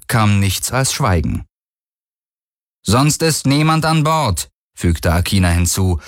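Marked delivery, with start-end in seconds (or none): 2.8-4.5 slow, higher, slightly unsure claim; a hint of uncertainty. A narrator's reading. Captain lies to the stranger, a little uncertain. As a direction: assert it with faint doubt. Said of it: "einen Hauch von Unsicherheit".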